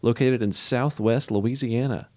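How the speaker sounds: upbeat radio host intro; punchy show opener with measured, announcer-like phrasing. Real, not acted. Host welcoming listeners to the show, radio voice. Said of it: "trying to get my radio voice back".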